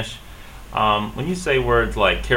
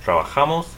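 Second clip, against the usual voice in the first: "trabajamos" as tra-ba-HA-mos; Spanish "trabajamos", third syllable stressed; stress next-to-last syllable; 6 semitones higher than usual. Shown as a demonstration. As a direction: lean on "ja" in "trabajamos". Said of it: "stress the next to the last syllable".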